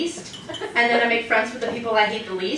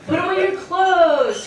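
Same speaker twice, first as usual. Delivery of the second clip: higher nagging mom voice; nagging mother; 8 semitones higher, 3 dB louder, slower than usual. Retold or imitated. Comedian mimics her mother's chore request, high nag. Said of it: "my mother asks me".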